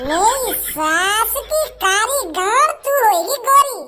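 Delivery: drawn-out mocking jeer with a laugh in it; slow mocking jeer. Bhajji mocking the girl who wants to be fair, slow jeering drawl. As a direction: stretch each word out to ridicule her.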